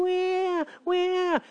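high, whiny fake wailing; hammed-up crybaby wah; mock crying. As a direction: wail like a crybaby in a ditch. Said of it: "you're in a ditch and you're going".

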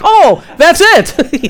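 a loud, drawn-out aha; delighted realization. Retold or imitated. Hearing God's answer, loud slow delighted aha. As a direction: stretch it out, thrilled to get it. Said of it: "You're like".

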